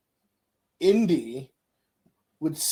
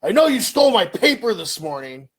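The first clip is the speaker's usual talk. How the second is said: accusing caller; 4 semitones higher, 5 dB louder than usual. Retold or imitated. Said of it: "the other person's like".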